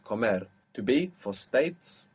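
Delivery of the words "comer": comer with the weight on MER; final-syllable stress. Shown as a demonstration. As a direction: land on the end of comer. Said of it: "Accent on the end".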